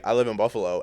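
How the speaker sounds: understated, offhand retold reply; nonchalant. Retelling the answer to a friend, nonchalant. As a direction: say it as if it's no big deal. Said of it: "I was so nonchalant with it".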